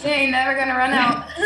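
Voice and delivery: laughing while talking; words through a laugh. Real, not acted. Laughing at her joke.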